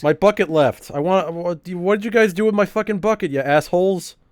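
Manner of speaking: rising, indignant shout at friends over the lost bucket; half-laughing fury, pitch climbing high; outraged yell. Real, not acted. Streamer yelling at chat about the stolen bucket, outraged.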